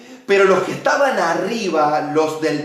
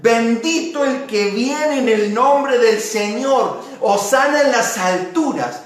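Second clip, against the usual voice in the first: crowd acclamation; 4 semitones higher than usual. Retold or imitated. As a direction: proclaim it like the crowd. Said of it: "Y dice".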